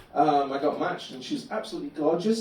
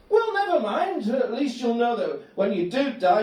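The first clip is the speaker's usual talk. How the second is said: serene cheerful Gary; 5 semitones higher than usual. Retold or imitated. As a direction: soothe him with relentless optimism. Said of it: "dialogue with Gary".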